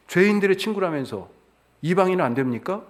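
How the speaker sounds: acting out the mother's protest, high and pressing; indignant challenge. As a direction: demand an answer like a wronged mother. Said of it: "충분히 따질 만하죠".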